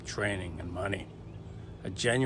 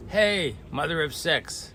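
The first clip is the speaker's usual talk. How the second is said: mock joking yell; 6 semitones higher than usual. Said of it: "Bill jokingly yelled out".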